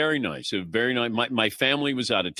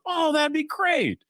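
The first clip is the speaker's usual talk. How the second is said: high, slow imitation of his wife; husband imitating his wife's sweet reply; 13 semitones higher than usual. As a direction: lightly mimic the wife sounding pleased. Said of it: "my wife goes".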